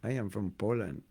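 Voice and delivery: lightly put-on Polish accent introducing himself; mild imitation of a Polish accent, unhurried; mock Polish accent. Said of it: "I don't have a Polish ac".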